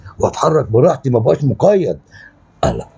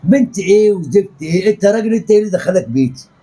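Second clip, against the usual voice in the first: heated, higher-pitched challenge; angry confrontation; 4 semitones higher than usual. Acted. زوج يطرد أبو البنت. (مواجهة غاضبة بصوت مرتفع الطبقة)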